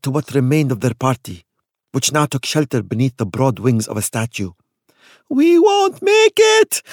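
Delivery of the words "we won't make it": much higher, loud, slow wheeze; wheezing. Acted. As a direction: wheeze it out, exhausted. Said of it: "Kuli wheezed".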